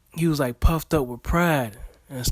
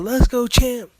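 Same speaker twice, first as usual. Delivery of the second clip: higher, upbeat cheering; lightly hammed-up encouragement; motivational pep talk; 4 semitones higher than usual. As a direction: hype up the fighter, cornerman style. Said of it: "do that motivation".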